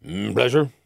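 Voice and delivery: a hint of a curt old sailor; gruff naval officer. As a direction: grunt it lightly, like a gruff officer. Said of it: "said the naval type gruffly".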